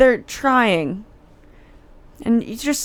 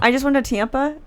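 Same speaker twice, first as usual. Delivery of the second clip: higher-pitched line with a Michigan "Tampa"; Michigan accent; 4 semitones higher than usual. Retold or imitated. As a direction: let the Michigan A show in Tampa, as TYAM-puh. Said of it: "I'm from Michigan, so I can't say".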